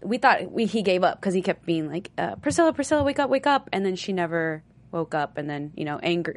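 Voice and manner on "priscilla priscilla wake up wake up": higher-pitched imitation of calling someone; lightly acted wake-up plea; retold urgent calling. Aaron trying to rouse Priscilla, mild retold urgency.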